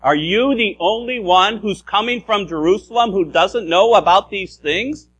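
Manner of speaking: lightly voiced Warwick accent, incredulous; a hint of Warwick English, amazed; mild Warwick accent asking in disbelief. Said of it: "imagine maybe a Warwick accent like this".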